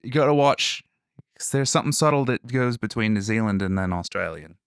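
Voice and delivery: casual Australian accent demo. Shown as a demonstration. Explaining the subtle New Zealand difference, in an Australian accent. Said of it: "do Australian".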